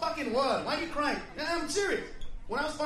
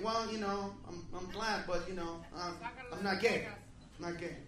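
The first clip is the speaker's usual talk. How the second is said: much lower, soft, unsure mumble; shy, awkward refusal; timid and hesitant; 6 semitones lower, 9 dB quieter than usual. Retold or imitated. Timid self in retold exchange.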